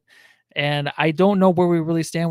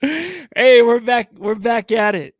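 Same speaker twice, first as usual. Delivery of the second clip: excited; 8 semitones higher, 9 dB louder, much slower than usual. Real, not acted. Host returns excited after freeze.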